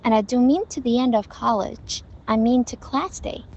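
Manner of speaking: And I linked, "to the" light and quick; connected model reading with light "to"; linked, weak forms. Shown as a demonstration. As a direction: skim lightly over to, keep mean clear. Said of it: "该轻读的时候轻轻快快地读过去".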